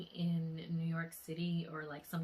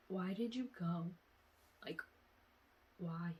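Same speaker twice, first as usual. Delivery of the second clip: retold plea; 6 dB quieter than usual. Asks lost loved one why.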